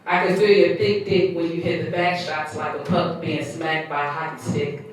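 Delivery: measured spoken-word reading; poem recitation. Acted. Poet reciting own piece to listeners, spoken-word reading.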